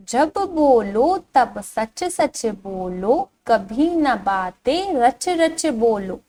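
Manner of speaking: slow, singsong verse reading; drawn-out, lilting children's poem; poem recitation. Shown as a demonstration. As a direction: recite slowly to a class, stretching the vowels. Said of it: "इस कविता को पढ़ना शुरू करते हैं".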